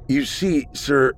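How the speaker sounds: high, unsure rise on sir; questioning rise. A narrator's reading. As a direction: stijgend op sir. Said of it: "raising his voice slightly at the end".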